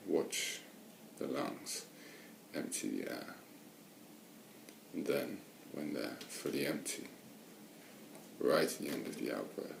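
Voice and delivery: unhurried meditation guidance with long pauses; guided meditation. Real, not acted. Meditation teacher settling listeners into watching the breath, guided meditation. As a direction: guide listeners gently, leaving space between phrases.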